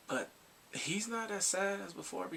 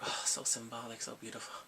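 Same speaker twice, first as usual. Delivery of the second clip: lower, soft sigh of admiration; moved swooning; 4 semitones lower, 4 dB quieter than usual. Retold or imitated. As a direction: let it fade softly as you swoon. Swooning over the wedding scene.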